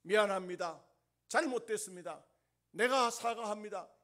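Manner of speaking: loud, earnest apology. Acted. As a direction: call out the apology loudly. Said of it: "그때 그 목사님이". (크고 진지한 사과)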